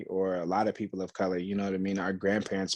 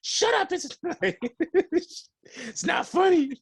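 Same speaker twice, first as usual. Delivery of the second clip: put-on much higher, laughing old-lady voice; embarrassed grandma laughing it off; imitating grandma; 4 dB louder, slower than usual. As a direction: play the grandma giggling through a denial.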